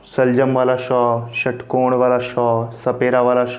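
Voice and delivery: श, ष and स each said as "sh", named by their words; three sh sounds. Shown as a demonstration. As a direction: say each sh clearly with its example word. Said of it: "सभी का उच्चारण एक जैसा रहा".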